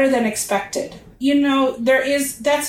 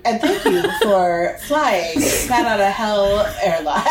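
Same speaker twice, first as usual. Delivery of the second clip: flight attendant; 2 semitones lower than usual. Retold or imitated. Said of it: "You sound like, uh, a flight attendant".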